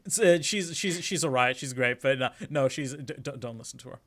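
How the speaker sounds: loud, high, panicked denial; frantic protest. Acted. Nick desperately shouting Maya down before Edgeworth hears. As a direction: drown her out in a panic.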